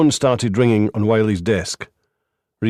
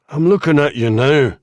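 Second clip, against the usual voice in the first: higher and louder, biting back; sharp retort; 5 semitones higher, 4 dB louder than usual. A narrator's reading. Reynolds hitting back at the lawyer, sharp and loud. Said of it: "Reynolds retorted".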